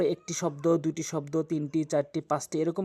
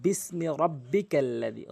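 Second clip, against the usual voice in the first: measured Quranic reading pace; slow recitation; 2 semitones lower, slower than usual. Shown as a demonstration. Teacher reciting the verse back from the start, slow. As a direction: read ইকরা বিসমি রব্বিকাল্লাযী slowly and evenly. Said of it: "তাহলে আবার পিছন থেকে".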